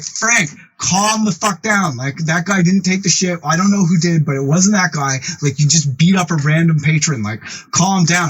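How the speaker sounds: urgent remonstrating. Retold or imitated. Friends telling an enraged boss to calm down, urgent remonstrating. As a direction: imitate friends trying to rein someone in. Group pleads with enraged Frank.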